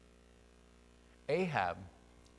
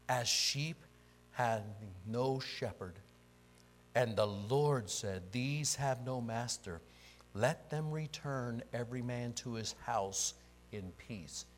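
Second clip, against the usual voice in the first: slow, measured scripture reading; solemn prophetic reading; slower than usual. Acted. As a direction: spread the vision out phrase by phrase. Reads the prophet's vision slowly.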